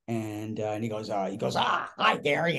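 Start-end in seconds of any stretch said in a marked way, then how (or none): 1.5-2.6 high burst of greeting; crazy energy on the hello; manic Mickey Rooney. Retold or imitated. Mickey meets the young actor, greeting him with crazy energy. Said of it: "He's, like, massive energy".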